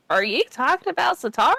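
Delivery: a quick, nosy granny; old woman asking. Acted. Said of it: "and she goes".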